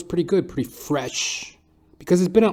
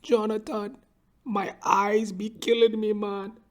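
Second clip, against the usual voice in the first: put-on high, slow whiny old man; whining barber, breaking into a whimper at the end; complaining barber; 11 semitones higher than usual. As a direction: moan it like a tired hypochondriac. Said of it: "He'd be like".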